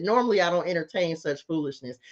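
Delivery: playfully posh repeat; fancy talk. Pretend. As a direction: put on airs again for fun. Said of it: "Y'all like that?".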